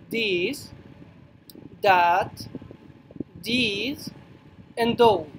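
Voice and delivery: this, that, these, those said one by one with pauses; pronunciation demo again. Shown as a demonstration. Teacher repeats the words for students to copy. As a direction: model this, that, these, those clearly. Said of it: "One more time".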